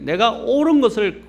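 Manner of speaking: normal talking voice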